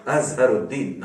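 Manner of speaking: अजहरुद्दीन with sounded h and long held deen; correct Urdu pronunciation. Shown as a demonstration. Teacher showing how an Urdu speaker says it, अजहरुद्दीन with full h and long deen. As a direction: say अजहरुद्दीन as az-har-ud-DEEN, double d. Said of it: "कोई गलती नहीं करेगा, वो कहेगा".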